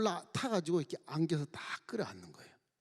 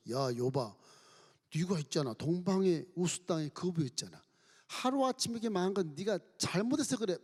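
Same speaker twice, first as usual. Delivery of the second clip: accusing friends; 4 semitones higher than usual. Acted. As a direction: scold him, demand he repent. Friends accusing Job in sermon.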